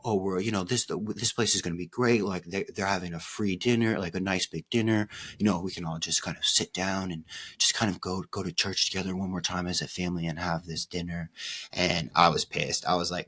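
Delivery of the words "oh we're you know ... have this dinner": lightly voiced dad, breezy and persuasive; a hint of a father selling the plan; imitating dad. Dad talking his kid into a church dinner, lightly imitated and breezy. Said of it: "And he's like".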